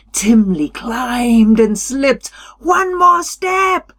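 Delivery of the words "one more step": Qualo voice. A narrator's reading. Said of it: "Qualo said".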